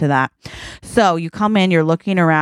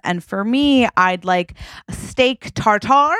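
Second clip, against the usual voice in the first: put-on slow, deliberate child ordering fancy food; lightly voiced demanding kid, drawing out the order; Northwest; slower than usual. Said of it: "then Northwest says".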